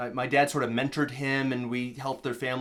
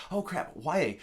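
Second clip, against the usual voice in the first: acted dismay, pitched up; mock let-down at a castmate; bummed out, disappointed; 4 semitones higher, slower than usual. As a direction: lament it with playful disappointment. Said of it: "being bummed out and disappointed".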